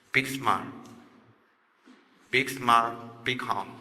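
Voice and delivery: low, soft self-restraining words; a calming inner voice, hushed and low; quiet warning. Retold or imitated. Voicing wife's silent warning.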